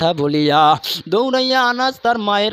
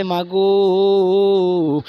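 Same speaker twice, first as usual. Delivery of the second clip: tag; much slower than usual. Acted. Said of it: "মাকে গিয়া বলে".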